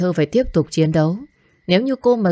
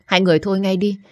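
firm, raised call to stop the fight; urgent pleading; 3 semitones higher, faster than usual. Acted. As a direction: tell them to quit it, pleading. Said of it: "gào thét và can ngăn". (khẩn khoản can ngăn)

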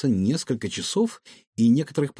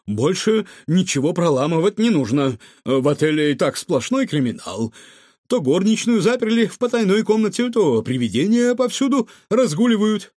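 louder, higher, panicky protest; alarmed; 7 semitones higher, 5 dB louder than usual. A narrator's reading. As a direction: protest anxiously, pitch climbing as it goes. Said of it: "перепугался управляющий".

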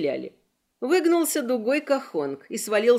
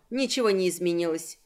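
ordinary delivery, nothing marked

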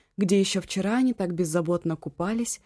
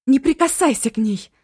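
high, loud yell; 7 semitones higher, 8 dB louder than usual. A narrator's reading. Eva yelling at the man not to touch her friend. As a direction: bellow the warning. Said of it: "завопила и Эва".

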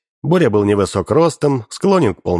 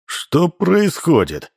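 high, slow, stern demand; menacing question; 8 semitones higher, much slower than usual. A narrator's reading. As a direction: drag it out menacingly. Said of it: "спросил он грозно".

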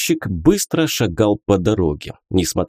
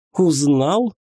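contemptuous; 6 semitones higher than usual. A narrator's reading. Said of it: "презрительно спросила".

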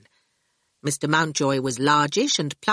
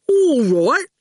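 calm, even henchman voice, a bit louder; equable goon; 8 semitones higher, 5 dB louder than usual. A narrator's reading. The goon calmly agreeing with Howard, even and unbothered. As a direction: agree without fuss. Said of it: "the goon said equably".

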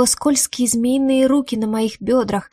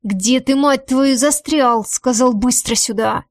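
yelling; 2 semitones higher, slower than usual. Acted. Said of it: "а депутат орёт".

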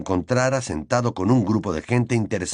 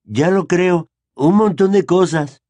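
put-on higher, louder proud boy; proud exclamation; 8 semitones higher, 6 dB louder, slower than usual. A narrator's reading. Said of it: "exclamó Neville con orgullo".

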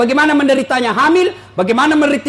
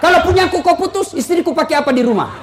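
raised voice, starting high then settling; mock angry protest; 4 semitones higher than usual. Husband protesting being cut off, mock angry. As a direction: object as an affronted husband. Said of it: "suaminya marah-marah sama P L N".

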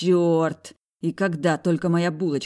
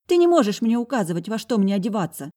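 high, loud mocking girl's voice; high defiant sister sneering; 6 semitones higher, 4 dB louder than usual. A narrator's reading. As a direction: scoff at his orders. Sister argues.

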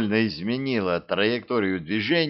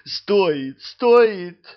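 rising higher and louder, insistent; eager insisting; 9 semitones higher, 6 dB louder than usual. A narrator's reading. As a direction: press it eagerly, building up. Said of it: "замахал руками демон".

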